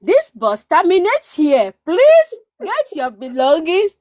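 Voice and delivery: a loose impression of a recorded bus announcer; bus announcement voice. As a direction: recite it like the bus speaker at the last stop. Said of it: "I just heard".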